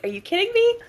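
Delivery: high, drawn-out retold protest; mock incredulous. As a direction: stretch the words in playful disbelief. Retold incredulous comeback about accents.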